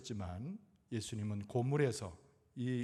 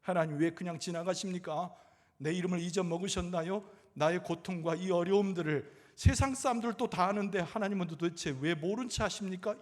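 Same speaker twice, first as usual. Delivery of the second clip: raised voice, building in pleading reproach; acted resentful prayer; 5 semitones higher, 3 dB louder than usual. A suffering believer praying to God, resentful. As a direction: imitate a complaint flung at God. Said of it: "원망 섞인 이야기를 하면서".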